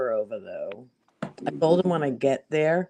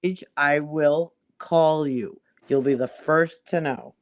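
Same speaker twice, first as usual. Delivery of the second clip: put-on thick Boston accent on the quote; 5 dB louder than usual. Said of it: "your Boston accent went way up".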